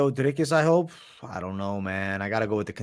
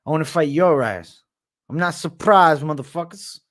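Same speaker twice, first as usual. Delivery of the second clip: Nate Diaz; 2 semitones higher, 3 dB louder than usual. Acted. Fighter calling out his rival, lightly imitated fighter voice. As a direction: do a trash-talking fighter's accent. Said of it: "Nate Diaz is your best".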